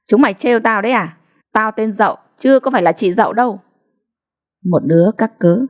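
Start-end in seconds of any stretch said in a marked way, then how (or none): 0.1-3.6 indignant, fast; angry retort. Acted. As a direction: snap back at the teasers. Dậu giận bạn trêu. (giọng bực tức)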